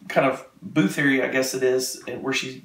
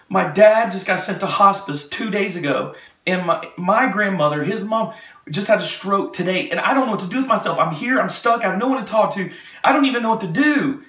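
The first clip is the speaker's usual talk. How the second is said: mildly high, overwrought imitation of the guard; retold distress; 5 semitones higher than usual. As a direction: pour out the trouble in a raised pitch. Guard pouring out her family troubles.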